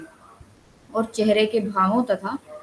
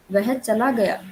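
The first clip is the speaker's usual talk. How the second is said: exclamation; slower than usual. Shown as a demonstration. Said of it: "यह है विस्मय बोधक".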